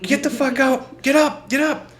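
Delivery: high, loud barked orders; cop yelling. Retold or imitated. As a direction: bark orders at the kid. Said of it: "yelling at me and shit".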